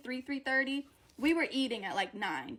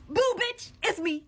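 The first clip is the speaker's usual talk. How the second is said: playful boo; 7 semitones higher than usual. Pretend. Playful jump-scare greeting.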